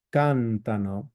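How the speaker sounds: Cantano mit Betonung auf der ersten Silbe CAN; Cantano, stress the third syllable from the end. Shown as a demonstration. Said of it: "the Loro form has a change in the accent pattern".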